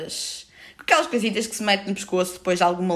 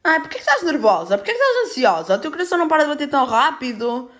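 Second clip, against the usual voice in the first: higher, fussy nurse voice; imitating the nurse; 6 semitones higher than usual. Mocking the triage nurse asking why she is nervous, higher voice. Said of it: "a enfermeira a fazer uma triagem".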